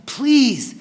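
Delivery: loud, high pleading, slowing on the last lines; desperate pleading. Acted. Begging his dying brother to hang on, desperately.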